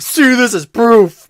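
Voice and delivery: high, slow, gloating voice; mocking accuser. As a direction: ham up a smug accuser. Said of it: "people were like".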